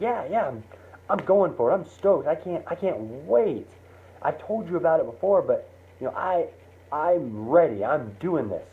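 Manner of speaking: pumped, high and eager; bursting to go chase it; excited. Retold or imitated. Mike excited about his dream.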